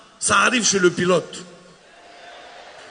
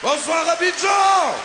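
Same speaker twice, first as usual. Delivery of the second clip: weak welcome; 7 semitones higher, slower than usual. Acted. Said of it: "Non, c'est pas accueil".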